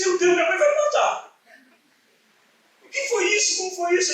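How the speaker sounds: desespero teatral, agudo e mais alto; pânico encenado. Retold or imitated. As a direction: imite um jovem apavorado com a mãe. Pânico ao saber que está bêbado. (pânico encenado, voz aguda)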